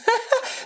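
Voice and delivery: kurzes, hohes, ironisches Lachen; kurzes Auflachen. Real, not acted. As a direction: ein bitteres Lachen ausstoßen. Lacht über eigene Ironie. (ein kurzes, hohes Auflachen)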